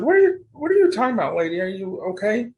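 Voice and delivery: fast, high, puzzled questions; confused reply. Retold or imitated. Answering mom on the phone, quick and high in confusion. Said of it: "And I said".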